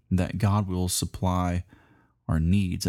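slow, with needs leaned on hard; stress on needs. Shown as a demonstration. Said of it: "I emphasize that word needs".

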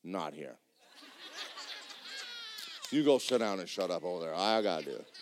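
lightly voiced wife shooing him off; a hint of an annoyed wife; mock wife. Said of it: "she goes".

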